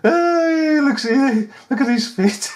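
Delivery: high, loud laughing call; excited laughing. Real, not acted. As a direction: point and laugh at him. Mocking officer's padding, laughing.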